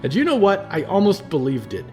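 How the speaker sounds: put-on a furious young man venting his pain; rising anger. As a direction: let the rage boil over, then grind it out. Percy rages at the cult.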